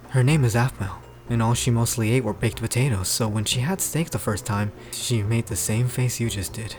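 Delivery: low, steady explaining; deep character voice; deep-voiced Pierce. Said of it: "how deep the guy's voice is".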